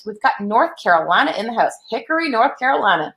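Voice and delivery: put-on a light, half-hearted try at a Southern US accent; poor Southern accent. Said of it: "really poor attempt of trying to have a Southern accent".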